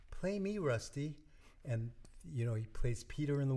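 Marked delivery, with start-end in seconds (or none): 0.1-1.2 high-pitched singsong oboe character; talking oboe. Acted. Oboe begging a boy in his dream, high character voice. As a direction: play an oboe come alive, pitched well up. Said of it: "the oboe comes to him and says".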